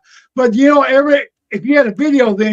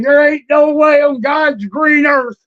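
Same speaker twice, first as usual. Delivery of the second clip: a slow, hammed-up Harley Race shout, higher; Harley Race impression; 4 semitones higher than usual. Wrestler cutting a promo to Eddie, slow mock Harley Race shout. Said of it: "I did the old, uh, Harley Race thing".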